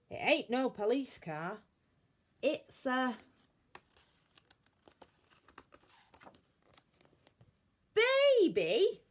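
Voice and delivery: put-on building to a high, loud cry on baby; disbelieving burglar rising into astonishment; amazed discovery. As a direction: let the surprise burst out at the end.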